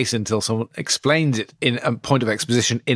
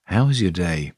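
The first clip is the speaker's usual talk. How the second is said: sincere; 4 semitones lower than usual. Shown as a demonstration. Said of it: "now ask them again".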